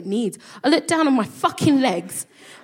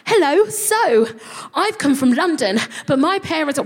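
high nervous self; 6 semitones higher, 4 dB louder than usual. Retold or imitated. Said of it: "And I was like".

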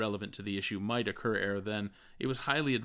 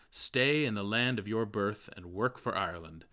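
earnest exhortation. Acted. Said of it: "His advice to every Irishman was".

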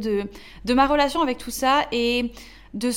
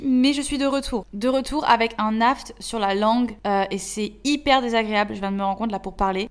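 slight lisp from a mouth sore; lisping, slushy s sounds. Real, not acted. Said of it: "si je zozote".

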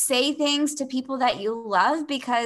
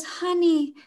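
imitating an older German lady, gently higher and soothing; calming voice; 5 semitones higher, slower than usual. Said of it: "in this very calming voice".

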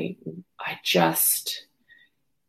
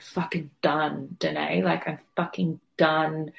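exhausted. Retold or imitated. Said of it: "and then I was just like".

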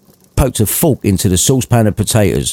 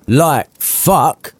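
scoffing; 5 semitones higher than usual. Acted. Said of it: "scoffed Missus Cratchit".

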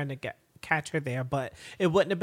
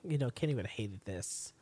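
imitating Constantine; 6 semitones lower, 8 dB quieter than usual. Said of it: "He was like".

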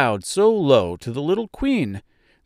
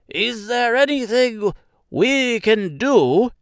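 high, slow mouse voice; big mouse character voice; 11 semitones higher, slower than usual. Acted. One of the biggest mice asks the Woodman, high mouse voice. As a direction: offer help as an earnest mouse.

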